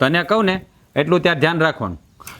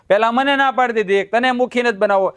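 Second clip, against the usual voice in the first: angry retort; 5 semitones higher than usual. Acted. Husband yelling at his father.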